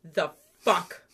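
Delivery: slow, pressing retold demand; retold angry demand. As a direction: drag out the angry question. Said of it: "And he's like".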